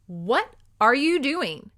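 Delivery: high, slow startled question; alarmed cry. Acted. Woman cries out as her wrist is bound, alarmed. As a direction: caught off guard, rising alarm. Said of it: "she cried".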